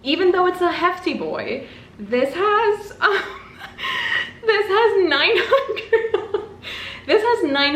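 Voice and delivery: high, slow, giggling through the words; squeaky laughing disbelief. Real, not acted. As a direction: laugh at how long the book is. Overwhelmed by huge page count.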